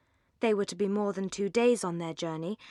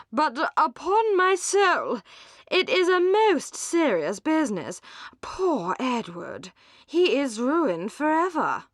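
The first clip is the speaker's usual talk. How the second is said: higher, louder, slow gentleman's lament; earnest gentleman; 5 semitones higher, 5 dB louder, slower than usual. A narrator's reading. Gentleman lamenting Edward's ruin to the ladies, raised and slow. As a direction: voice a man mourning a friend's ruin. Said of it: "said he".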